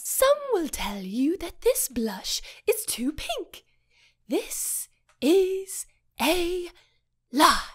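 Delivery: slow, breathy secret whisper. Acted. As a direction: confide it in a hushed whisper. Makeup ad parody, whispered.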